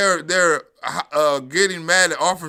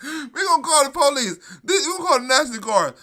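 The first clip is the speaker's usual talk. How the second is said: laughing mock panic; 5 semitones higher than usual. Mocks officials' overreaction.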